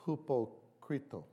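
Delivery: "hupocrito" said slowly, like the Greek original; Greek-style pronunciation. Shown as a demonstration. Pastor shows the Greek root of hypocrite, slowly. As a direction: sound out "hupocrito" with Greek vowels. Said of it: "It's, it's something like".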